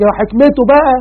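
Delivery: high, sneering mock of his wisdom; sarcastic complainer, lightly voiced; mocking sarcasm. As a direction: scoff at the word حكمته. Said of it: "وفي اللي بيشتم ربنا بطريقة بقى يعني يقول لك".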